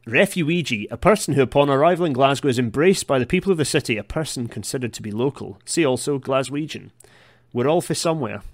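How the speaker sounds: exaggerated east coast Scottish accent; reading a definition in a broad East Coast Scottish accent. Shown as a demonstration. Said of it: "I did that in an East Coast accent".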